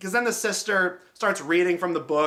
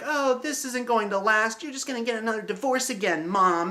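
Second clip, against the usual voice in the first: slightly raised, whiny teen imitation; mock complaining daughter; 4 semitones higher than usual. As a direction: put on a mildly petulant kid's complaint. Mimicking the sister complaining to mom.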